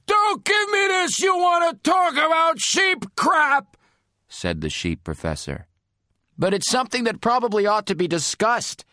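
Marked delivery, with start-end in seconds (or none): 0.1-3.8 from another room. Acted. Professor yelling from inside room. 6.4-8.8 coaxing. Acted. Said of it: "I coaxed".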